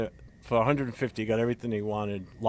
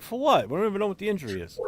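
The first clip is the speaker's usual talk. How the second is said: incredulous retort; 11 semitones higher, 4 dB louder, faster than usual. Retold or imitated. His own retorted reply.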